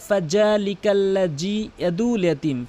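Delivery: "ফাযালিকাল্লাযী" with hard j for both dhals; "ইয়াদুল" as a smooth long u, no ayn; common mispronunciation. Shown as a demonstration. Teacher shows how people misrecite, hard j. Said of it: "এভাবে তেলাওয়াত করে".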